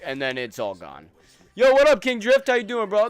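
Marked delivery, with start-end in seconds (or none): 1.5-3.1 hyped greeting. Real, not acted. Greeting a viewer.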